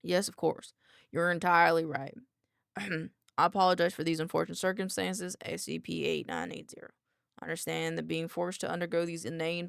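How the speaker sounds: put-on light country accent, formal apology. Doctor apologizes to a contained researcher, light country accent. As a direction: apologize politely with a hint of country. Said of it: "give him a country accent".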